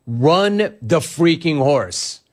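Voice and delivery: slow, sarcastic read of the caller; drawn-out mock quote; hammed-up know-it-all caller; mocking Frank. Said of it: "noted equine expert Frank in Boise".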